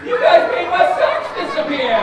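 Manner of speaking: high and loud playful outrage; hammed-up shock; mock outrage. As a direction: pretend you're shocked at the kids.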